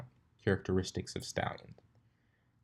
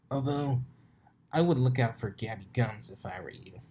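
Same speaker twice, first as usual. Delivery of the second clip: sly warning; 3 semitones higher than usual. Acted. Rainbow teasing.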